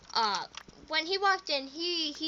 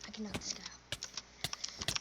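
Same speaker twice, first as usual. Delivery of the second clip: slow whispered boast; 2 semitones lower, 9 dB quieter, slower than usual. Real, not acted. Gamer muttering a boast mid-fight, whispered.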